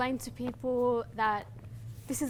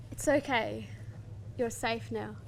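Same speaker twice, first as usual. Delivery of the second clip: soft reassurance; 3 dB quieter than usual. Acted. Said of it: "whisper softly in my ears".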